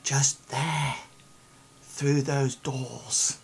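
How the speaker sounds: secretive guide whispering; hushed directions. Acted. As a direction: point the way in a hush. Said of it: "He says".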